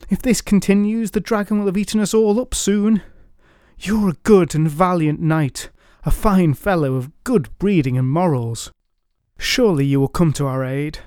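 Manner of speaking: pleading townsfolk. Acted.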